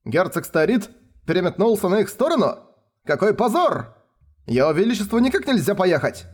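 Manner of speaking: high, agitated protest; scandalized nobles protesting; indignant outcry. A narrator's reading. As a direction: cry out in shock and shame. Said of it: "вскричали все".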